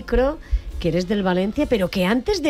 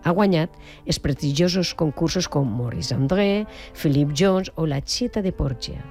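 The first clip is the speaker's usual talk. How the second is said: measured presenter's read, emphatic phrase openings; radio introduction. Acted. Radio host presenting a celebrated trumpeter to listeners, announcer style. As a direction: build up the guest with deliberate pauses.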